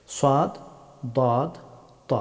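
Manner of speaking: "সাদ, দদ, ত" each heavy and rounded; full-mouthed letters. Shown as a demonstration. Teacher listing the heavy letters, full-mouthed naming. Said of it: "এইগুলি মুখ ভর্তি করে".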